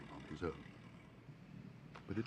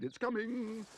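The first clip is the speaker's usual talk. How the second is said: put-on excited child; 12 semitones higher, slower than usual. A narrator's reading. Child warning of snowball.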